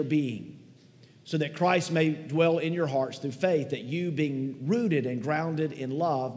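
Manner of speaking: measured, solemn pulpit reading of the verses; scripture reading. Acted. Pastor reads Ephesians aloud.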